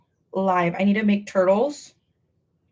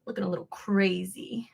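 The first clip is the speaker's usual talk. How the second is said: whisper; 3 semitones lower, 6 dB quieter than usual. Real, not acted. Whispered aside about her hair.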